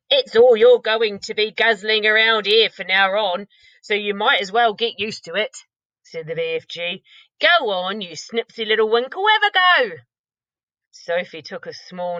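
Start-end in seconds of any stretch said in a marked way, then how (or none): 0.1-10.0 louder teasing giant; lightly voiced coaxing giant. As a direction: giant urging the girl to try. BFG voiced urging.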